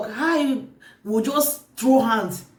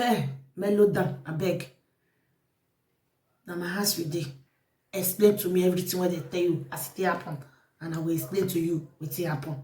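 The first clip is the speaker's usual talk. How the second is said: lower, measured plea to settle down; calming; 4 semitones lower, 5 dB quieter than usual. Retold or imitated. Host asking agitated visitor to explain, calming. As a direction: talk the visitor down, low and even.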